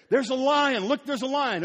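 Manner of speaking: high, loud mock excitement; preacher playing the listener expecting a lion; excited. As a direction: announce the lion with wide-eyed glee.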